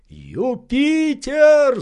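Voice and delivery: very high, slow, drawn-out call; shouting. Acted. Legrand shouting up to his servant, drawn out. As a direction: call up at full stretch. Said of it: "закричал он".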